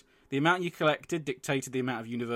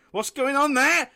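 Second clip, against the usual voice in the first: doctor voice; 13 semitones higher, 8 dB louder than usual. Retold or imitated.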